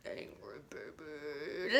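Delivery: put-on tiny scrunched angry baby; small angry baby. Shown as a demonstration. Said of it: "super small like an angry baby".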